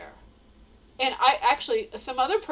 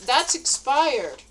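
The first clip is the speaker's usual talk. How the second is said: slow warning; 3 semitones higher, 5 dB louder, much slower than usual. Retold or imitated. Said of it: "I told him".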